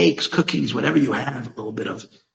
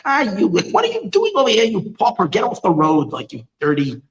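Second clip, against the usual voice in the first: mock haughty telling-off, pitched up at first; arrogant scolding; 5 semitones higher, 3 dB louder than usual. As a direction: act out a rich snob shooing someone away. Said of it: "full of arrogance of self".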